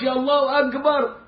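"الله أكبر" with the "ك" said as a hard Egyptian "g", like "agbar"; Egyptian g in akbar. Shown as a demonstration. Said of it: "أكبر دي جيم".

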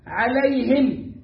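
عليهم drawn out very slowly; slow model. Shown as a demonstration. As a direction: stretch each syllable of عليهم. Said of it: "model recitation".

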